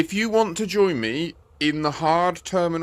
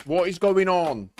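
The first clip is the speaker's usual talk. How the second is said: exasperated; 4 semitones higher, slower than usual. Real, not acted. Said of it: "I'm getting really, really pissed off".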